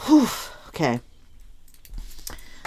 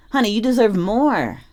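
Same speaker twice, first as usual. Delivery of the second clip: higher, emphatic pep talk; encouraging, heartfelt push; gassing someone up; 4 semitones higher than usual. Acted. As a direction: lift the pitch and insist on their worth. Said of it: "who needs to be gassed up".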